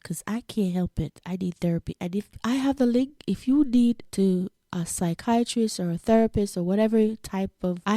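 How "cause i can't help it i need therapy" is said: whisper. Real, not acted. Confessing aside in whisper.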